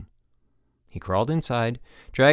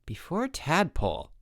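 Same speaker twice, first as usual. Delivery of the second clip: puzzled repeat; 7 semitones higher, 4 dB quieter than usual. Acted. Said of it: "the instructor repeated".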